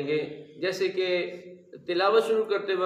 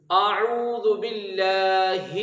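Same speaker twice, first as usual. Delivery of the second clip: slow, drawn-out Quranic recitation; slow taught recitation; slow recitation demo; much slower than usual. Shown as a demonstration. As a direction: recite it slowly for students to repeat. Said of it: "آئیے ہم اس کی مشق کر لیتے ہیں".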